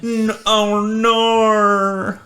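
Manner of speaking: a hammed-up Australian nor. Shown as a demonstration. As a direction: show the Aussie nor again, up high. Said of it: "clear the condensation".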